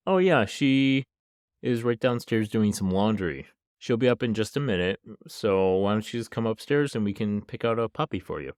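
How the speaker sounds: imitated casual host. Dad coaxing the girl upstairs to pick a puppy, casually imitated. Retelling the man luring her upstairs.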